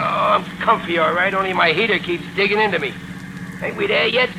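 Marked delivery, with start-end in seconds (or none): 3.6-4.3 hushed whisper from the back seat. Acted. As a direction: whisper so the watchers won't hear. Hiding in back of car.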